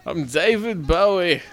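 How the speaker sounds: slow voice of a singer; impression of a singer. Shown as a demonstration. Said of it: "Do the singer".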